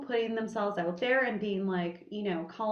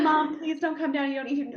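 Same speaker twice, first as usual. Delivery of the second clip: retold plea; 6 semitones higher than usual. Pleading with mom not to come.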